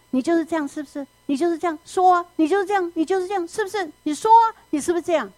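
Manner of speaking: pointed, nagging wife jabbing at her husband, pitch climbing; accusing wife. Retold or imitated. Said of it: "他常常这样指着他". (太太指着先生质问，语调越来越高)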